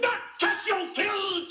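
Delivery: sudden high shout of disbelief; shocked outcry. Acted. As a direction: cry out, struck by the news.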